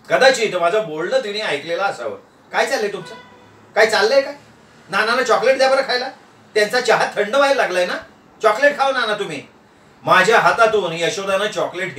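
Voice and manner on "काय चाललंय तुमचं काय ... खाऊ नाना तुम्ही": lightly voiced brisk, scolding wife; slightly raised pitch, taking charge; a hint of a nagging wife; bossy wife.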